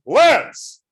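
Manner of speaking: loud, high-pitched shout of a name; calling out. Acted. Teacher catches a student sneaking out of class, shouting. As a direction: yell sharply after someone slipping away. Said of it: "then I have to say".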